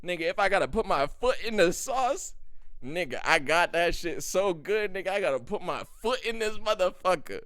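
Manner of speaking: boastful chef bragging about his sauce; proud cook. Retold or imitated. Imitating an Indian cook bragging to the viewer, loud. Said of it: "they just like".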